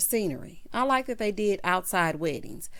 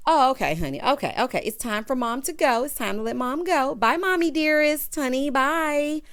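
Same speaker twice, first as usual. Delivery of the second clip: lightly raised, hurried-along goodbye; mock send-off; 4 semitones higher, 3 dB louder than usual. Sending mom on her way, mock send-off. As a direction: usher someone out with a sing-out farewell.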